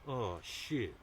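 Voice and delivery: casual, unbothered mock reaction; nonchalant. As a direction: say it as if it hardly matters. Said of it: "he's really nonchalant going".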